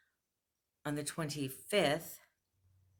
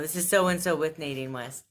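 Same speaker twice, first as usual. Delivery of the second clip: cheerful rep voice; 7 dB louder than usual. Retold or imitated. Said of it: "Sounding all cheerful".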